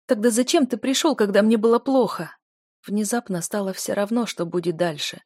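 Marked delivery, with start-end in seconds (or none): 0.1-2.4 hurt accusing cry, higher; high, loud confrontation. Acted. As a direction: demand it, voice up. Heroine confronts him.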